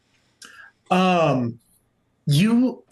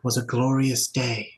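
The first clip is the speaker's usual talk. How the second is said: reverent cultist; 2 semitones lower, 4 dB quieter than usual. Acted. Veiled church member praising the cataclysm, reverent. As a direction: intone it with solemn devotion. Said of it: "And they go".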